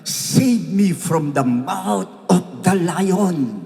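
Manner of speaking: put-on child's soul crying for help; pleading child's cry. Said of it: "sumisigaw ang soul and spirit ng anak mong".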